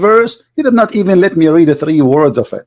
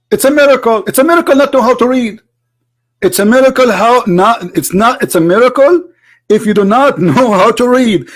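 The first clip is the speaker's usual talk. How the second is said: sarcastic mockery; 6 semitones higher than usual. Real, not acted. Sarcastic mockery of opponent's claim.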